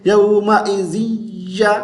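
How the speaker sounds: यौमइजिया with buzzing "zee-ya", no nasal hold; wrong joining. Shown as a demonstration. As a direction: show faulty यौमइजिया with plain z. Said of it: "इसको यूं नहीं पढ़ेंगे".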